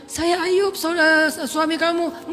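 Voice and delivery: high, earnest insisting; insisting husband. Acted. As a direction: convince your wife it's you. Ayub insisting to his wife. (suami yang meyakinkan istrinya)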